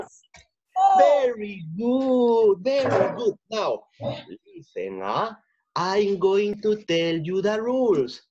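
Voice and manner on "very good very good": enthusiastic praise. Real, not acted. Praising children loudly.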